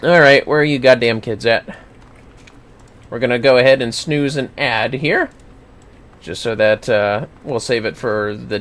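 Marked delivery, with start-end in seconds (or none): none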